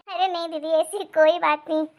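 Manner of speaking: denial with suppressed laughter; struggling to stay composed; trying not to laugh. Acted. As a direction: keep a giggle down while denying it. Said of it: "आप इतना हंस रही हैं".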